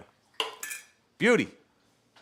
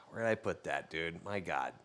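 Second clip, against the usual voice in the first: muttering to himself; 6 semitones lower, 10 dB quieter than usual. Retold or imitated. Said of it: "I was just like".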